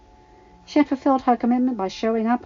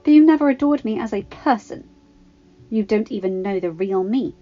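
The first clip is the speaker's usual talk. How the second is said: louder, firm and cutting; stern; 4 semitones higher, 6 dB louder than usual. Acted. Padme rebuking her pushy ex-boyfriend, stern and loud. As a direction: put him in his place. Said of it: "Padme replied sternly".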